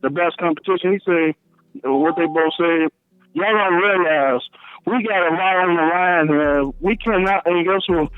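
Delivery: muffled. Real, not acted. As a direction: voice muffled as if covered. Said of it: "you sound a little muffled".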